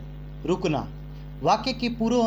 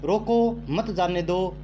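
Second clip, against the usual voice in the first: slow रोको, then मत जाने दो together; pause after रोको; slower than usual. Shown as a demonstration. Teacher explaining the punctuation error, pause after रोको. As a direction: separate रोको from मत जाने दो, taking it slowly. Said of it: "रोको और मत जाने का".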